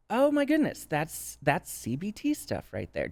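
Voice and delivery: high-pitched mock astonishment; acted amazed realization. Voicing someone spotting CBT in twelve step, amazed.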